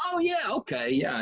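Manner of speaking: high, Southern East Texas twang; light East Texas twang, relieved; Joel Osteen's twang. Retold or imitated. Joel Osteen finding his place in his notes, twang. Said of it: "he's like".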